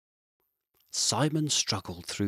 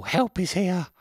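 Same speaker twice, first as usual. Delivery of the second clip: high, louder squirrel voice; relieved squirrel; 9 semitones higher, 5 dB louder than usual. Acted. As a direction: gasp it out with relief. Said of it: "thought Squirrel".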